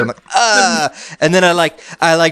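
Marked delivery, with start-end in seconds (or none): 0.3-0.9 bad acting. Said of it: "every bad acting everywhere".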